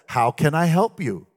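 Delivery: calm president. A narrator's reading. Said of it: "and he says".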